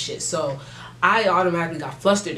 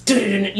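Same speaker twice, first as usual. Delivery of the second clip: siren imitation; 3 semitones higher, 4 dB louder, faster than usual. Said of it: "and they go".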